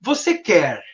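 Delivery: VOCÊ QUER held out as an offer; questioning tone. Shown as a demonstration. Parent offers the child a choice, questioning. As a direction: draw out QUER, posing it as a question. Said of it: "isso é um tom de questionamento".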